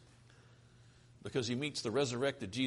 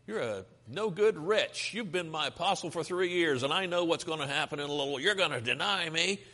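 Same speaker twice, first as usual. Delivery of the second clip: mock scolding; 3 semitones higher than usual. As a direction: act out telling someone off. Imagined scolding of Peter by Jesus.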